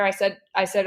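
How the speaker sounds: ordinary talk, nothing marked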